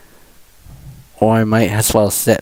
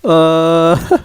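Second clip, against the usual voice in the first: words broken up by laughter; laughing; 6 semitones higher, slower than usual. Real, not acted. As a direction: crack up mid-sentence, high and slow. Streamer cracks up while talking.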